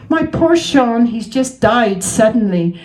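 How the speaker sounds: lightly acted grieving widow; a hint of tears in the voice; crying her eyes out. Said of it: "she was just crying her eyes out".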